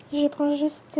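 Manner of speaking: slow words broken by a laugh; embarrassed laugh. Acted. Caught staring, laughs it off.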